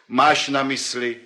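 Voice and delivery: chuckling through the punchline; laughing. Acted. Sokrates laughing at his own joke, laughing.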